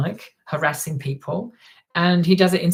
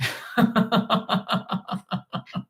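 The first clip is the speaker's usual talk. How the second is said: breathy laugh; 5 semitones higher, 3 dB quieter than usual. Real, not acted. Laughs after imitation.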